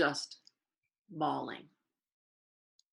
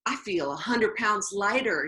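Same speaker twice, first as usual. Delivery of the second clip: overjoyed; 5 semitones higher, 3 dB louder than usual. Retold or imitated. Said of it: "he was so overjoyed".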